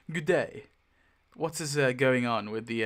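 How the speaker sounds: put-on a light posh English accent greeting Carlos. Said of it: "in my posh accent".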